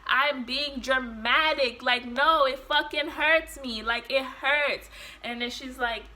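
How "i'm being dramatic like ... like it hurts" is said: louder, slow, pained complaint; retold yelling. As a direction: insist through the pain. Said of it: "screaming at the top of my lungs".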